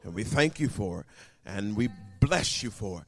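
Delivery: earnest prayer, starting low; pastoral prayer. Real, not acted. Pastor prays for anybody who doesn't know God, earnest prayer. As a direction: settle into reverent thanks, then intercede.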